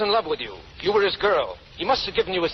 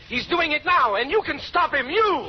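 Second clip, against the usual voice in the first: rising pressure; 6 semitones higher than usual. Acted. Interrogator pressing prisoner to talk.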